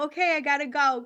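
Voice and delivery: mild mock hurry, repeated; a light put-on "gotta go" again to end the call; brushing off. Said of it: "I was being very like".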